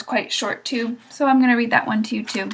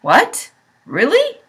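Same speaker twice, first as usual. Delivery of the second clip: much higher, louder cry of hope; cried; 6 semitones higher, 5 dB louder than usual. A narrator's reading. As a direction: leap up on really in disbelief. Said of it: "cried Wilbur".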